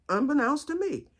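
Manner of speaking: fancy word repeated, pitched high; trying to be fancy. Retold or imitated. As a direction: imitate yourself putting on elegance. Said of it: "I tried to be fancy".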